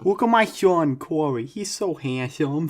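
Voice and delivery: hammed-up New Jersey mom, stretched out; New Jersey accent. Friend playing his proud mom, mock New Jersey accent. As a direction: show off your boy in mock New Jersey. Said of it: "like, a New Jersey accent".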